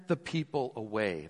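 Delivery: slow, deliberate quote; slow mock-reasonable proposal; quoted slowly. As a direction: lay out the disciples' idea slowly. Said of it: "it says this".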